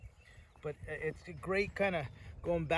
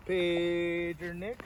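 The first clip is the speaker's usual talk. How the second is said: slow demo; much slower than usual. Shown as a demonstration. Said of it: "let's see if I'm gonna".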